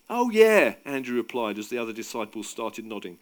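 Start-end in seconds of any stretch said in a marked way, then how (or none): 0.1-0.8 loud, high agreement; raised, projected reply; calling back. A narrator's reading. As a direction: call back in hearty agreement. Andrew calls back to Peter.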